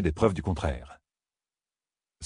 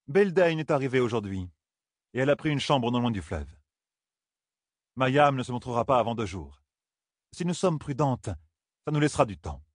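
higher-pitched, lightly voiced solemn woman; solemn woman planning; 4 semitones higher than usual. Woman reports arrivals to her companions, lightly solemn. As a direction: inform them in a higher, measured character voice.

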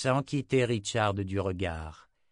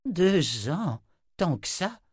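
high, louder, swooping disbelief; astonished; 9 semitones higher, 4 dB louder, slower than usual. A narrator's reading. Old wizard learns how long it lasted, astonished. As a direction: echo it as an incredulous question.

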